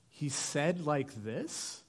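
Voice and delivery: slow questioning echo, rising at the end; puzzled repeat. Retold or imitated. Parent repeating the child's wording back, mildly puzzled. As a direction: query the odd phrase, mildly baffled. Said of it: "why'd you say that like that".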